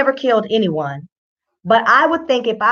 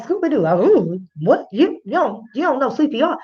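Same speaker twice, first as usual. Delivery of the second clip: cartoonish swooping disbelief; mock astonishment. Host reacts to officer lacking CPR, mock astonishment. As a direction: stammer it out in baffled mock surprise. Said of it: "I was like".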